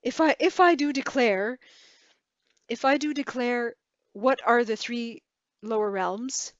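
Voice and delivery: flutter it like a Southern belle; hammed-up Southern belle declaring grandly. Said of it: "like a Southern belle".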